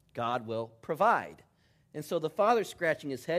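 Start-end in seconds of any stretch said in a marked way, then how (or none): 0.1-1.4 serene suitor. Retold or imitated. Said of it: "And the young man says".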